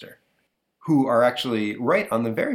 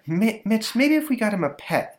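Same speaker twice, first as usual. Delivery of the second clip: mom voice; 12 semitones higher, 3 dB louder than usual. Acted. Mother voiced.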